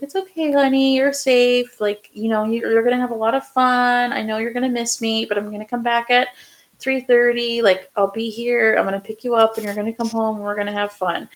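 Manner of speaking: mother reassures her son at daycare drop-off, soothing; soothing mom voice. Retold or imitated. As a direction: comfort a crying baby. Mom soothing crying baby at daycare.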